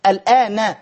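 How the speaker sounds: "الآن" said as al-aa-na; teacher's clear fatha ending on "الآن"; final fatha sounded. Shown as a demonstration. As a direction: voice the short "a" that closes "الآن". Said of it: "مبني على الفتح".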